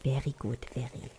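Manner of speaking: hammed-up German accent, savouring each word; bad German accent. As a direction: overdo a playful German accent. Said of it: "That was the worst German accent ever".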